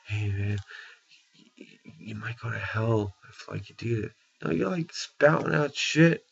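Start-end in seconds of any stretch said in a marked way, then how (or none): 0.1-4.1 softer, casual friendly heads-up; gentle warning. Retold or imitated. A believer kindly warning a stranger on the street, softer and gentle. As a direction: ease off, warn him kindly. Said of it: "it's not like you're going out there like".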